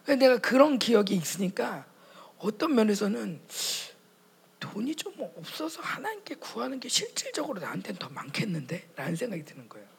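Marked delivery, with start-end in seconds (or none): 4.6-8.9 hushed musing; whispered thought. Retold or imitated. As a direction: wonder it quietly to yourself. (혼잣말로 속삭임)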